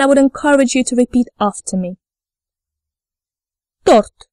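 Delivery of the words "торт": "Торт" with a clear, full O; stressed O demo. Shown as a demonstration. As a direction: model "Торт" for learners, stressed O kept round. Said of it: "words where O is stressed".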